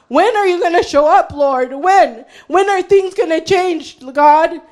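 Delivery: pleading questions thrown up to God; crying out. Acted. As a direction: cry out in mild desperation. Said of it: "David is crying out".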